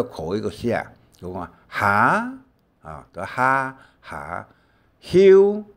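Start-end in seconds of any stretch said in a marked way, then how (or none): 5.0-5.6 休 said high and loud as a model sound; demo pronunciation of 休. Shown as a demonstration. Teacher modelling 休 high and loud for the class. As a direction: pronounce 休 sharply for students. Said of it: "休休困的休".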